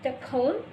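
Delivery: the cone, a cut-down telephone; the cone as shortened telephone; deleted syllable. Shown as a demonstration. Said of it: "big syllables have been deleted".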